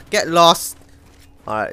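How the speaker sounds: usual speaking voice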